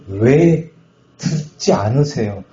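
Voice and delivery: slow, deliberate reproachful question; acted angry reproach. Pastor replaying his complaint to God, slow reproach. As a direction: spell out the complaint word by word. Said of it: "너무 화가 나더라고요".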